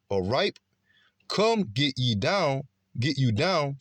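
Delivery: slow, declaimed Bible verse, pitch swinging up; scripture reading. Acted. Preacher reading prophecy to listeners, declaimed scripture reading. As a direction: proclaim the verse slowly, stretching key words.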